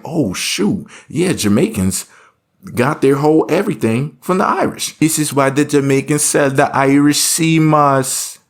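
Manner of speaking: high, hammed-up Irish-Jamaican lilt; mock Irish-Jamaican accent. Shown as a demonstration. Vlogger explaining Irish sea moss, in a mock Irish-Jamaican accent. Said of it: "they sound all weird like this".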